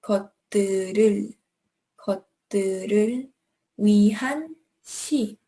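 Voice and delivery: 「것들을 위한 시」 flowing, fast, linked; connected speech. Shown as a demonstration. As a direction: link 「것들을」 into 「위한 시」 smoothly. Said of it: "an L between these two".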